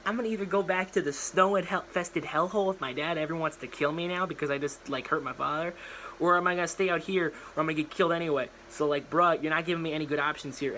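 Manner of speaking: put-on sarcastic girl. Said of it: "And she's like".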